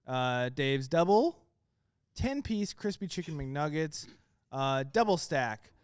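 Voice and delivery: all in one breath. Shown as a demonstration. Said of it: "I'm gonna try to say it all in one breath".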